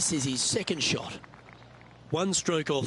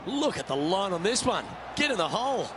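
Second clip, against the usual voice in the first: excited; 3 semitones higher than usual. Real, not acted. Live putt call building.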